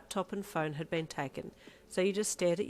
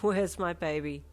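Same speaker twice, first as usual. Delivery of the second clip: calling; 5 dB louder, slower than usual. Acted. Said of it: "he called".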